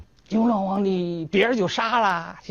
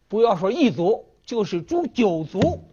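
defiant shout; 5 semitones higher than usual. Acted. Scholar defies the emperor.

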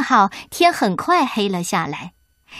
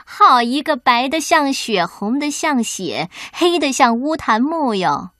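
gloating wicked queen; 2 semitones higher than usual. Acted. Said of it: "目光凶狠".

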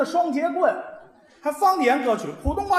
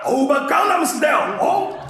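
mock K-pop song; 2 semitones higher than usual. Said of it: "韩语，韩国的".

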